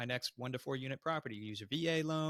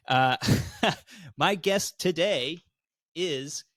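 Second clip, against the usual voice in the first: laughing; 5 semitones higher, 10 dB louder, much slower than usual. Real, not acted. Laughing host intro.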